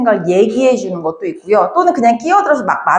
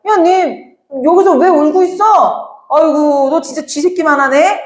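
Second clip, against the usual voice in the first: higher, teasing soldier's taunt; mocking tease; 4 semitones higher than usual. Soldiers teasing the small crying soldier, mock jeering. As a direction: jeer at the tiny crying man. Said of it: "조롱하고 놀리는 말은 해".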